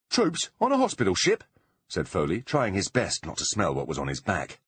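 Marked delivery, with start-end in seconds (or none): 0.1-1.4 much higher, disbelieving; incredulous. A narrator's reading. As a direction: scoff in disbelief. Foley incredulous.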